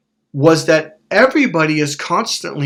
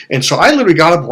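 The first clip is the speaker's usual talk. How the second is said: usual speaking voice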